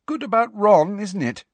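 bleary. Acted. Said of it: "she said blearily".

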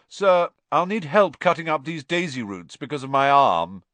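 high, loud appeal to the teacher; calling out. A narrator's reading. Malfoy asking Snape for help, calling out. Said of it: "Malfoy called".

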